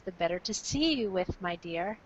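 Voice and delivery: a wolf purring as a sweet granny; wolf as grandmother. Acted. Wolf answering the girl as grandmother, low and soft.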